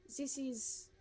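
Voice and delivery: haughty gourmet lady. Acted. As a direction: read it like a picky aristocrat giving orders. Voicing the gourmet NPC Marguerite.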